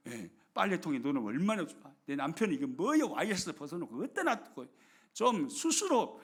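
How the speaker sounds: mock grumbling. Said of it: "성질이 나고 투정이 나오죠".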